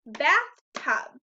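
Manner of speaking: Bathtub said loudly, one clap per part; clapping syllables. Shown as a demonstration. Teacher leading class to clap Bathtub in two beats. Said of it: "Let's practice with the word bathtub".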